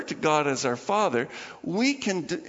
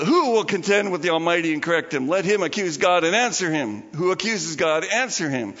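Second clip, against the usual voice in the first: louder, pressing voice of God; God commanding; 3 dB louder than usual. Retold or imitated. God challenging Job in a louder, commanding voice. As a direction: demand an answer. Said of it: "in chapter forty".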